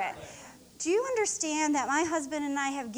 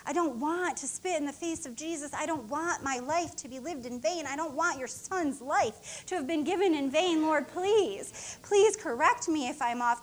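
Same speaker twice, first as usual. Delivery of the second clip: tearful prayer. Retold or imitated. Minister reliving her prayer after a powerful service, hushed then crying out. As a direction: pray from near tears up to crying out. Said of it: "And I was just".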